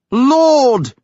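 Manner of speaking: high, loud cry to heaven; shouted prayer. A narrator's reading. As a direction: cry out to the clouds. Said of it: "he shouted".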